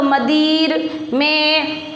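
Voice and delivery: मदिर में drawn out slowly, no n in मदिर; imitated misreading. Teacher mimics pupils' error, मदिर read without its n. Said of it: "आप ऐसे पढ़ते हो इसको".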